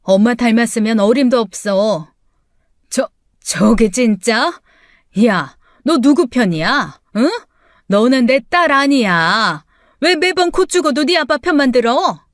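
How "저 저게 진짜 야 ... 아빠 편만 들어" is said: sputtering outrage. Acted. Mother sputters at daughter.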